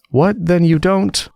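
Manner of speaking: tiny creature confiding in a friend; little voice. A narrator's reading. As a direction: squeak it out like a timid little insect. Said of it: "the little voice began".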